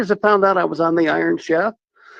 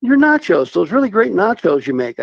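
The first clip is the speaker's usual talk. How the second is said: higher, louder mock-pleading kid; pleading nephew; 5 semitones higher, 5 dB louder than usual. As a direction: beg for the nachos like an eager teen nephew. Nephew begging uncle for nachos.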